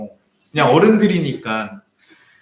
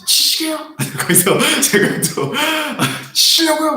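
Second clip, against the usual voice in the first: high, louder taunt; provocative challenge; 13 semitones higher, 5 dB louder, slower than usual. Retold or imitated. Pastor taunting the old man who raised his cane, loud. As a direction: dare him to swing, pitched way up.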